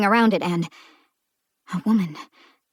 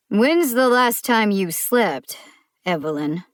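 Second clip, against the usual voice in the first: weary sigh; 2 semitones higher, 3 dB louder than usual. Acted. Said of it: "With a sigh".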